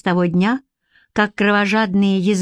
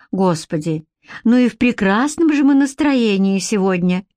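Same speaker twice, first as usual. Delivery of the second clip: tutting reproach. Acted. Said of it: "прищёлкнула языком Элейн".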